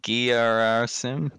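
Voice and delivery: Gerasim drawn out slowly, syllable by syllable; slow, careful Gerasim. Shown as a demonstration. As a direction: sound out Gerasim slowly, stress at the start. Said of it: "I'm not sure how to pronounce that".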